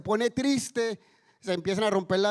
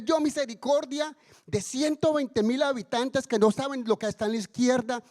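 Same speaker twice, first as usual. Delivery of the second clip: higher-pitched, insistent rhetorical questioning; challenging reproof; 5 semitones higher than usual. Acted. God questioning Jonah about mercy for Nineveh, reproving. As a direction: press the point as an acted rebuke.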